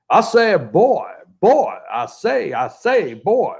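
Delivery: blustery cartoon Southern accent, swooping up high; mock Southern voice, drawn out at the end; put-on Southern accent. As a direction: ham up a repetitive Southern bluster. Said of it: "trying out his Southern accent".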